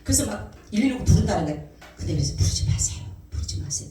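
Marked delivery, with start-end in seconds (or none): 2.4-3.9 breathless whisper, fading away; telling the family not to call 911, whispered; whispered plea. Retold or imitated. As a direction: beg them in a hushed whisper. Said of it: "그랬어요".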